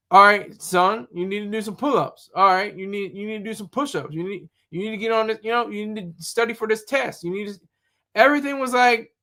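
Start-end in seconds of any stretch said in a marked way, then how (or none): 0.1-7.6 lightly voiced stern drill sergeant barking orders; a hint of a drill instructor laying down the law; tough drill instructor. Drill instructor ordering recruits around, mildly stern. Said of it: "No, they're like".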